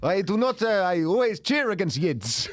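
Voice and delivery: heavy put-on Eastern European accent, slow; hammed-up foreign accent. In a role play he answers the nosy old lady, hamming up a foreign accent. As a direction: ham up a foreign accent, dropping articles. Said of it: "I'll, I'll do the accent".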